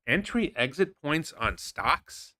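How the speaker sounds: slow, mocking disbelief, rising question; incredulous. Real, not acted. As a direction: drag it out like it's absurd. Mocking repeat of rival's bio.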